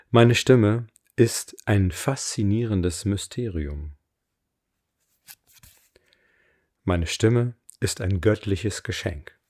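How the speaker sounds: slow, deliberate affirmation voice; affirmation reading. Acted. Coach reads her voice affirmations for listeners to repeat, slow affirmation reading. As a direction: read each line with weight and pauses.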